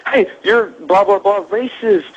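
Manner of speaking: yelling insults in a mocking voice; a hint of an angry heckler shouting. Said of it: "they're cussing at us".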